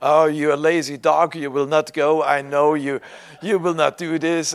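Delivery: loud mock scolding, calling him lazy; teasing. Brother Summer teasing the preacher, loud playful scolding. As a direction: boom out a friendly jab. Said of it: "he was teasing me".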